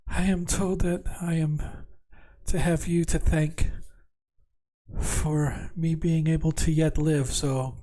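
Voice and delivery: soft, tired, breathy princess; barely there, drained of strength; exhausted whisper. Acted. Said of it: "very softly and quietly and almost like in an, uh, an exhausted voice".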